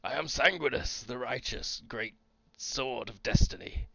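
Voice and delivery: proud heroic declaration; grand self-introduction. Retold or imitated. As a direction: announce yourself like a champion. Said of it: "Sanguinus will be like".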